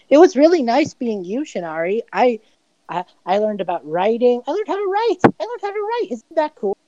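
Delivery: high, eager little voice bragging; proud childlike doppelganger. Acted. A doppelganger boasting to Shinari, in a high, eager voice. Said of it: "and just goes".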